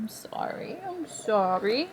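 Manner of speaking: hushed, soothing whisper; whispered apology. Real, not acted. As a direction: whisper sorry gently to calm her. Comforting animal in distress.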